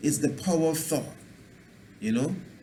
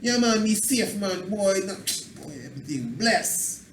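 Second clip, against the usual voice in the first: higher, easy Jamaican patois cheer; upbeat Jamaican patois; 5 semitones higher than usual. Shown as a demonstration. Teacher shows good-vibration talk in Jamaican patois. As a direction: say it relaxed and blessed in Jamaican patois. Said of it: "good vibration".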